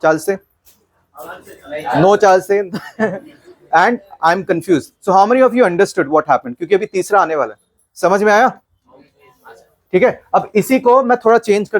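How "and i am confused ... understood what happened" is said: slow, spelled-out English; drawn-out, teacherly pace; slow, deliberate. Shown as a demonstration. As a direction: lay each word down slowly. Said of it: "teacher slows for the class".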